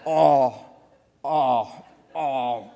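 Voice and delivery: honking like a goose; silly goose honks, imitating Kripke. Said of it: "he would make goose-like honking noises".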